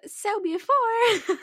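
very high, slow cutesy voice; uwu voice. Acted. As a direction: say it in a squeaky cute voice. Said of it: "tell it in an uwu voice".

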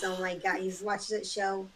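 a lightly done East Coast Jersey accent, slowed; Jersey accent demo. Shown as a demonstration. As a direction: show off the Jersey accent a little. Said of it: "they talk like this".

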